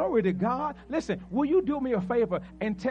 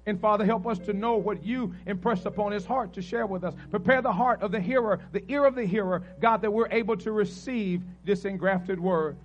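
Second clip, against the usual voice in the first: pulpit prayer. Acted. Leads an opening prayer.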